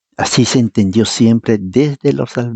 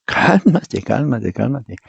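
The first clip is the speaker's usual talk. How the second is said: calming down, fading; slower than usual. Retold or imitated. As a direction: settle him down, each one gentler. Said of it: "le digo".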